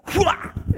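breathy "whooah" like a blade slicing air; vocal sound effect of a swung sword; sword-swing whoosh. Acted. Preacher mimics Solomon swinging the sword, whooshing.

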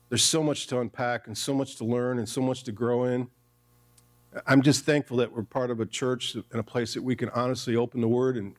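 earnest pastor's closing prayer. Acted.

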